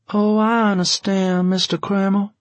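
high, sustained widow's voice; soft, brave smile. A narrator's reading. Widow answers flustered Kramer, softly brave in a high voice. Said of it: "she said softly with a brave smile".

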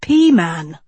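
snarfled through a mouthful; talking while chewing food; mouth full. Acted. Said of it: "Dot snarfled, mouth full".

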